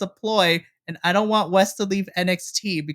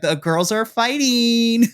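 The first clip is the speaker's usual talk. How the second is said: excited slow announce; 4 semitones higher, 5 dB louder, slower than usual. Retold or imitated. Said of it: "I was like".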